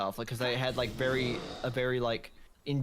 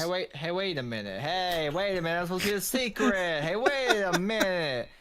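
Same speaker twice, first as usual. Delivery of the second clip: mock protest; 3 semitones higher than usual. Friend protesting his secret being told, mock outrage. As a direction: object in mock outrage, growing more insistent.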